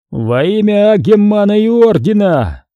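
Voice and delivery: booming metallic robot voice. Acted. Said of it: "металлическим голосом произнёс он".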